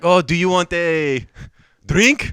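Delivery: mock French accent, halting before the last word; put-on French accent. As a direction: pose as a French student. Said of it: "we're talking like that".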